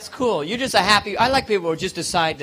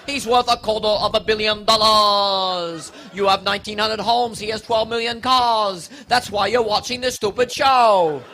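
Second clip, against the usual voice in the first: slow, announcing TV host voice, lightly done; a hint of a showy host reading off riches; Robin Leach impression. Host of Lifestyles of the Rich and Famous, slow show-off announcing. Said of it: "Never talks at a normal tone of voice".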